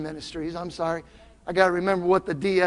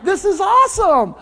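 excited; 10 semitones higher, 4 dB louder than usual. Retold or imitated. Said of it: "And I'm like".

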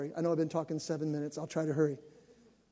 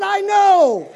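laughing; 13 semitones higher, 16 dB louder than usual. Real, not acted. Proud agreement, laughing.

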